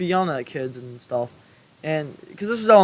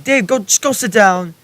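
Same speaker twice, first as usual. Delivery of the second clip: higher, louder mock teacher's order; raised-voice teacher imitation; retold exasperated order; 5 semitones higher, 7 dB louder than usual. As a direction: act out a teacher telling a pupil to sit. Exasperated teacher orders pupil to sit.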